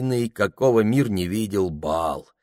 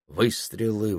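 usual speaking voice

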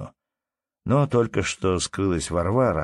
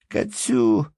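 put-on higher, quick-answering small boy's voice; lively little boy; 6 semitones higher, 3 dB louder, slower than usual. A narrator's reading. Little boy answering his father's teasing question, lively. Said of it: "живо отвечал мальчишка".

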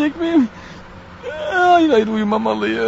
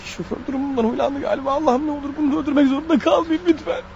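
hushed inner thought; 2 semitones higher, 6 dB quieter than usual. Acted. Inner thoughts about driver.

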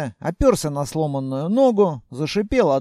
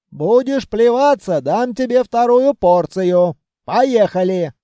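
put-on raised, scolding old granny voice; scolding grandmother; 4 semitones higher, 5 dB louder than usual. Grandmother scolding Vanya after the explosion, raised. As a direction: hug and scold in one breath. Grandmother threatening second dose.

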